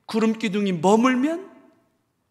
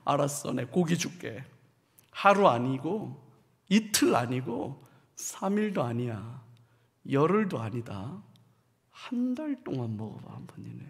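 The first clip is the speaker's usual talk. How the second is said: offended God; 5 semitones lower, 5 dB quieter than usual. Retold or imitated. A hint of God scolding the grumbling people, stern and quiet. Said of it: "하나님도 마음이 상하셨어요".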